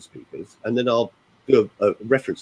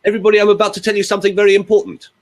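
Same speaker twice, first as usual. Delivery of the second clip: rushed straight through in one breath, high and louder; no pauses; 10 semitones higher, 5 dB louder, faster than usual. Shown as a demonstration. Coach showing the powerless version, fast with no pauses. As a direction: run the whole announcement together without a gap, pitched high. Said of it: "let me show you the other version".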